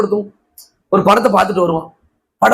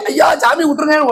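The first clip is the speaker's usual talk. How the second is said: mock pleading; 4 semitones higher than usual. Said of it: "ஒருத்தன் ஓடினாரு, எப்படி".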